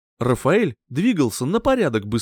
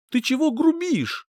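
higher-pitched, mildly displeased question; displeased grumble; 11 semitones higher than usual. A narrator's reading. Girlfriend scolding her boyfriend's rudeness, mildly displeased. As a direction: voice a touch of disapproval. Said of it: "недовольно буркнула Фелиция".

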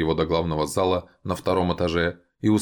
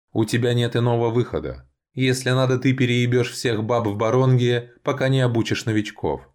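higher, insistent ultimatum; stern elf envoy; 6 semitones higher than usual. A narrator's reading. Frowning elves overrule Valian, high and commanding. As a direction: press the order home, allowing no refusal. Elves threaten the reluctant vampire.

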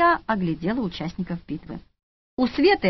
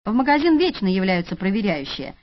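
ordinary delivery

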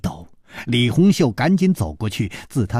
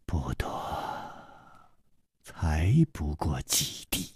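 cold; 6 semitones lower, 11 dB quieter than usual. A narrator's reading. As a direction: say it coldly under the breath. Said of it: "那女子冷冷地说".

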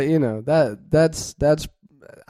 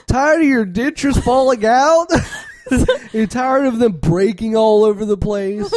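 infomercial; 5 semitones higher than usual. Pretend. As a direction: sell it like a late-night ad. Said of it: "It's like".

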